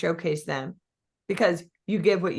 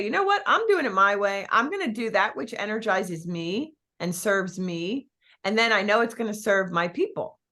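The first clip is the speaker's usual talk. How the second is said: 1 decisive. Shown as a demonstration. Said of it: "We can choose to say".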